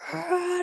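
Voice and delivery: high, half-voiced retold roar; a light imitation of a primal roar; mock lion roar. Mother recalls the pushing urge, mock roar. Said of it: "roared like a freaking lion".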